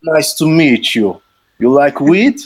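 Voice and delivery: high put-on foreign stranger, half laughing; Dimitri voice. Dimitri answers Dave at last, high mock accent. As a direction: ham up the odd stranger's eager reply. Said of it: "He was like".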